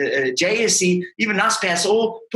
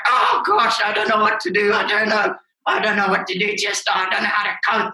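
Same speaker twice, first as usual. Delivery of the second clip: mock crying client; 2 semitones higher than usual. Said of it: "He was crying. He was like".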